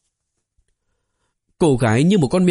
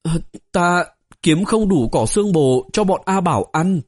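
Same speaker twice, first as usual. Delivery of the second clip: put-on cautious girl's reply; 5 semitones higher than usual. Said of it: "cẩn thận đáp".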